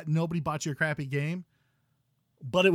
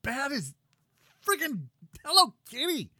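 loud, high outraged cry; outraged protest; 7 semitones higher, 10 dB louder than usual. Real, not acted. Mock outrage at the game.

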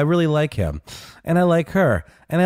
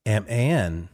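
drawn-out, lower letter-by-letter spelling; slow spelling; 9 semitones lower, 3 dB quieter than usual. Real, not acted. Co-host working out a listener's name, slow spelling. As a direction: spell it out slowly, pausing between letters.

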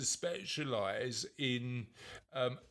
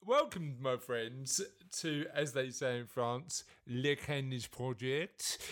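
mock French accent; slower than usual. Podcast host greets listeners in a hammed-up French accent. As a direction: play a jokey French host, stretching Le Kindness Project slowly. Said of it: "if I do my French accent".

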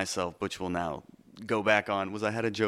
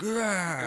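mock angry roar; 9 semitones higher than usual. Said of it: "I can't be angry on stage. when I'm like".

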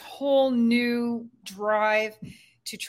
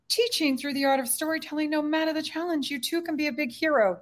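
higher storybook fairy voice; 5 semitones higher than usual. Shown as a demonstration. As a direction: speak it like a fairy telling tales. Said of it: "gotta do the fairy voice".

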